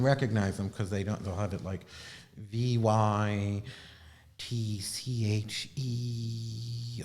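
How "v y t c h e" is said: whispered spelling. Real, not acted. Spelling a word for viewers, slow whisper. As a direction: spell the letters out in a breathy whisper, slowly.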